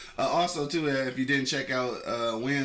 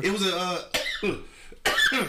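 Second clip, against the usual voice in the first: talking around a cigarette; slow words with a cigarette in mouth; 6 semitones higher, 3 dB louder, much slower than usual. Real, not acted. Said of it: "you know I can't talk and smoke at the same time".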